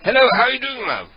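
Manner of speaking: chummy fake caller hamming up the greeting; prank caller persona. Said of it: "It's Ed Rosenthal".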